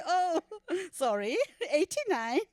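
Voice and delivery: normal talking voice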